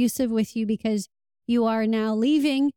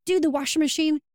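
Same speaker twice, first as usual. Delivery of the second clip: imitating a helpless partner, slightly higher and quicker; lightly mocking a partner who pretends to be frustrated; mock frustration; 4 semitones higher, faster than usual. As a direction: play the fake-helpless partner with a light whine. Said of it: "they'll act like they're frustrated".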